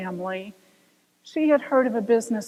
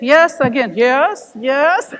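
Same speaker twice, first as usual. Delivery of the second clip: louder enthusiastic yeses; emphatic yes; 8 dB louder, slower than usual. Real, not acted. Coach rallying listeners, emphatic. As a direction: punch each yes.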